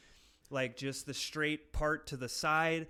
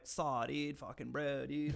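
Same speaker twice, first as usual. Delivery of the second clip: mock Californian kid's dude-speak; put-on California surfer-bro accent. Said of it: "this kid's like".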